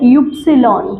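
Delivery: युप्सिलॉन spoken out as "yup-si-lon"; German letter Y. Shown as a demonstration. Teacher naming Y for students, युप्सिलॉन as "yup-si-lon". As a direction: say युप्सिलॉन in full, not "why". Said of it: "but we call it".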